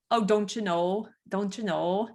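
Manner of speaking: lightly imitated Minnesotan accent with long round O's; a mild Fargo-style Upper Midwest lilt. Shown as a demonstration. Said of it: "that's kind of that accent".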